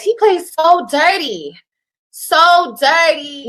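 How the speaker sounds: slow, exasperated "so dirty"; emphatic so dirty. Real, not acted. Exasperated complaint, words stretched.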